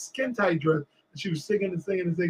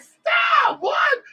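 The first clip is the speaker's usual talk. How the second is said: very high, loud squeal; mock protest; 4 dB louder than usual. Singer answers a screaming fan from the stage, high mock protest. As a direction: squeal it in playful disbelief.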